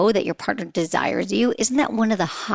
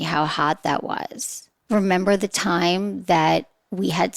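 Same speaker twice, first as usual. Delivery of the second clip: sultry sext; 3 semitones lower than usual. Shown as a demonstration. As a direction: linger over each word like a private memory. Sample sext read sultrily.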